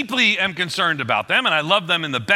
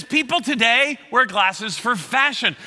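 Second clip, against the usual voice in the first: put-on high, slow patient teen lecturing dad; teen daughter calming her dad; condescending teen; 6 semitones higher, slower than usual. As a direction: talk down to your father kindly. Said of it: "that tone of voice".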